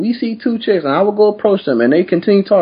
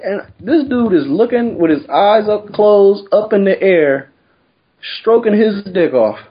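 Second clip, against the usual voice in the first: laughing through it; 7 semitones higher, slower than usual. Real, not acted. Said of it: "laughing retelling bathroom".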